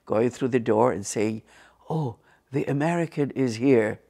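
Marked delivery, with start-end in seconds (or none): 1.9-4.0 whispered report to the boss; hushed secretary voice; acted hushed announcement. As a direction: whisper it, as if through a doorway. Secretary announcing visitor through door.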